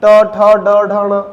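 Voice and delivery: ट ठ ड ढ ण spoken slowly one by one with the tongue curled back; each retroflex letter stressed separately for students; demonstrating retroflex sounds. Shown as a demonstration. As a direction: sound out ट, ठ, ड, ढ, ण clearly as a classroom demo. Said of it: "बोल के देख लो".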